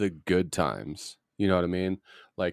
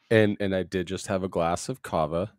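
numb mouth; 2 semitones lower than usual. Real, not acted. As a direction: talk with a mouth numb from kava. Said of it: "my mouth is still numb".

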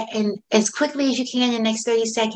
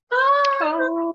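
gasp of delight; 11 semitones higher than usual. Retold or imitated. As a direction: caught by a happy memory, gasp then Oh. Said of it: "I was just like".

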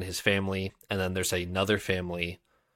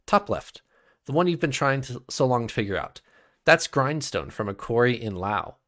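lightly voiced jester, starting much higher; court fool; 4 semitones higher than usual. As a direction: play the knowing fool with a lilt.

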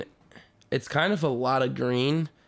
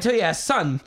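lightly voiced old-time sideline heckler; a hint of a fifties football father; fifties dad; 3 semitones higher than usual. Podcaster voicing the fifties to the quarterback's dad, mock old-time voice.

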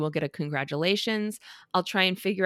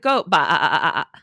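goat bleating; 4 semitones lower, 8 dB louder, faster than usual. Retold or imitated. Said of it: "like, you think".

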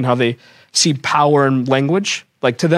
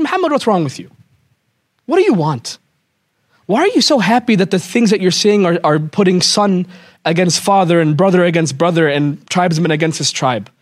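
tantrum. Retold or imitated. Walid ranting at the Prophet, mock-angry. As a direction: throw a mock fit at him. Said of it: "he gets a tantrum".

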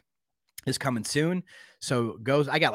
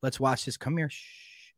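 put-on calm them like a scared child; soothing hush. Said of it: "you're holding them going".

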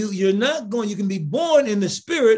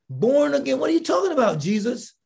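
higher-pitched incredulous question; baffled objection; 5 semitones higher than usual. Acted. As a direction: challenge him, puzzled, pitch lifted then falling on the name. Acts out a baffled objection to Jesus.

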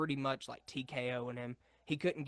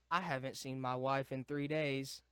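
lightly imitated deadpan dad; mock monotone delivery. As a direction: recite it evenly, with little pitch movement. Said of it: "like, a monotone accent just going".

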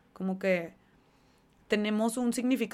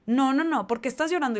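loud, higher scolding of her son; scolding mother; 4 semitones higher, 7 dB louder than usual. Retold or imitated. Mother scolds her crying son after the lost final, loud and higher. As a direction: scold the crying boy loudly. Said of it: "su mamá le empieza a decir".

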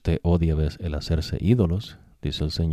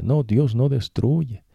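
higher, slow, drawn-out mock denial; mocking the devil's voice; 8 semitones higher, slower than usual. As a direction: mimic the tempter's sweet lie. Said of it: "Esa es la voz del diablo".

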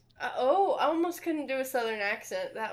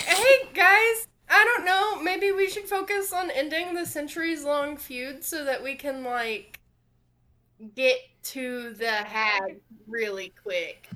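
hammed-up impression of a teammate; mock whiny suggestion. Mocking Breach's attitude in quote.

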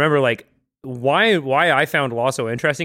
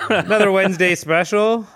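higher showman call with a laugh; announcer voice; 8 semitones higher, 5 dB louder than usual. Pretend. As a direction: announce it like a radio host. Mock announcer again.

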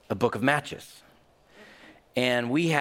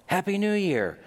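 secret gleeful greeting; 7 semitones higher than usual. Retold or imitated. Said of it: "in secret".

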